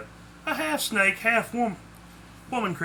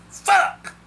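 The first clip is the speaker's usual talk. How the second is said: loud, high shouted curse; explosive high yell; startled swearing; 9 dB louder than usual. A narrator's reading. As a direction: yell an expletive as if just crashed. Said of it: "he swore".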